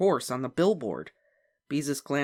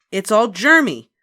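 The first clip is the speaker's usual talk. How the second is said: disgusted; 8 semitones higher, 12 dB louder than usual. A narrator's reading. Sister disgusted.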